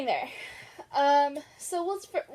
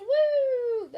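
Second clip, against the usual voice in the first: mock cheer; 11 semitones higher, 4 dB louder than usual.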